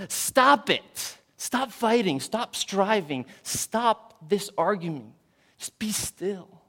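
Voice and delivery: high, loud scolding shout; a mother scolding fighting children, high and loud; mother yelling at kids. Retold or imitated. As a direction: yell at quarreling kids to stop. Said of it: "would yell at them".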